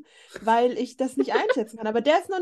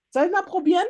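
excited; 7 semitones higher, 7 dB louder, faster than usual. Real, not acted. Daring to taste expired pudding.

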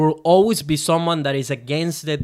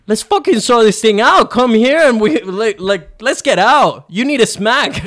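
much higher and louder, furious threats; angry yelling; 7 semitones higher, 8 dB louder than usual. Retold or imitated. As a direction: shout him down, ready to fight. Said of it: "What an angry motherf".

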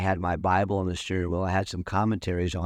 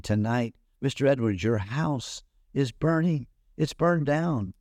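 urgent; 6 semitones higher than usual. Retold or imitated. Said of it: "rode up to him furiously".

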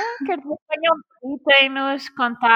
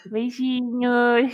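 slow, sweet drawn-out goodbye; cute voice; much slower than usual. Pretend. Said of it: "faz a tua voz mais fofinha".

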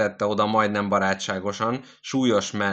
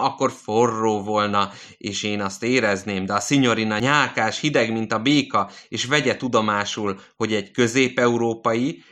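lightly voiced old man; 3 semitones higher, 4 dB louder than usual. Old man in bed raving about the nurse, raised ranting voice. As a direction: rant like a feverish old man.

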